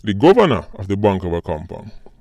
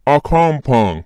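slow, higher mock-American twang; mimicked American accent; 4 semitones higher, slower than usual. Vlogger repeats the banker's word, mock American accent. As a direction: draw it out in an imitated American accent. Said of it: "this man said a compound".

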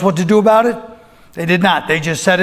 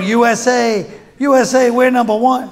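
mock crowd chant, a little higher; cheering; 4 semitones higher than usual. Comedian as football fans in the stands, cheering.

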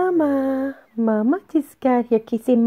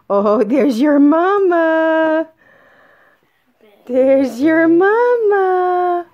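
drawn-out coo; 5 dB louder, slower than usual. Real, not acted.

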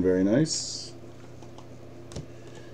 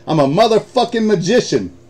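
higher and louder, laughing as he brags; laughing boast; 10 semitones higher, 5 dB louder than usual. Real, not acted. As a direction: crow about it through laughter. Gloating after the hit.

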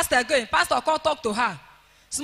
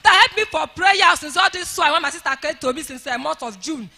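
impassioned, forceful blessing; fervent prayer; 2 semitones higher, 4 dB louder than usual. Real, not acted. Testifier praying for the pastor who helped, fervently. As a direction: pour out thanks for the pastor forcefully. Prays aloud for the G O.

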